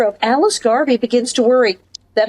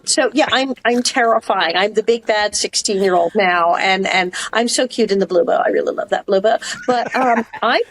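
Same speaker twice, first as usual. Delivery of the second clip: ordinary talk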